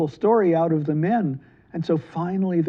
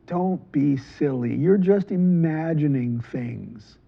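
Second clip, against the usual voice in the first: dismissive; slower than usual. Acted. Merchant scoffs again.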